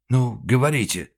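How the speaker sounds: loud, pressing order to speak; urgent demand. Acted. Director urging the frightened woman, loud. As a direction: make her talk now.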